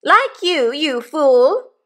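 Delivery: high, loud scolding shrew; angry scolding. A narrator's reading. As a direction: burst in and berate the husband, pitched high. Wife scolds husband from the window.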